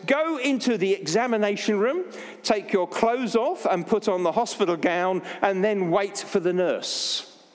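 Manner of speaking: a hint of a stern drill sergeant; lightly barked orders; understated stern receptionist; mild mock bark. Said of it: "she barked in a loud, stern voice".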